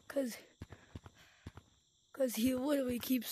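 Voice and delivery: whispered aside to the camera; whispering. Real, not acted. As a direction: lean in and whisper it. Aside to viewers about friend.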